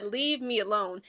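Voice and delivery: slow, low leave me alone; slow plea. Retold or imitated. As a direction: drag it out, weary. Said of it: "She said".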